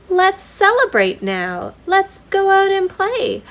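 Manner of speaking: a recovered bear cheering to be well; excited bear. Acted. Bear calls out to his friends, bursting with joy. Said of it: "Bear cries".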